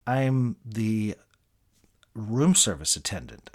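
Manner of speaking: a nervous, hesitant own-voice answer with a pause. Retold or imitated. The nervous room service guy answering the angry celebrity, hesitant. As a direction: mumble the job title, unsure. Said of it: "I said nervously".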